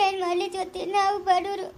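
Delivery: crying as she pleads; weepy, despairing appeal; tearful helplessness. Acted. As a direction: sob between the phrases. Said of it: "ಬಾಣಂತಿಯಲ್ಲಿ ಅಳ್ಬಾರ್ದು ಅಕ್ಕ".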